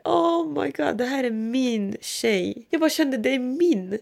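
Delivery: hushed, high, moved voice; tender awe. Retold or imitated. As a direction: say it softly, marvelling at your baby. Acted first feeling of motherhood.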